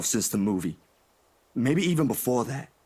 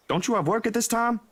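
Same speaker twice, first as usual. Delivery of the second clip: flustered protest; 7 semitones higher than usual. Acted. Flustered protest at friend dropping by.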